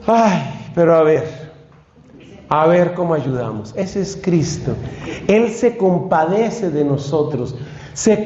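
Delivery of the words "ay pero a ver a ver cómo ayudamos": con una risita compasiva; sonriendo con ternura. Retold or imitated. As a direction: mirar al pobre con cariño y sonreír. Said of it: "Cristo se sonríe y dice". (Cristo sonriendo, compasivo con quien ora)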